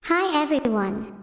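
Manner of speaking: a hint of Camila's sweet self-introduction; Camila impression. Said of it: "do a Camila impression".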